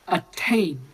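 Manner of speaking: put-on Attain said slowly and deliberately in a near-transatlantic accent; a measured, lightly done Attain in Griffith's not-quite-English accent. Imitating for friends how Griffith says Attain in his accent. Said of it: "He says it like that".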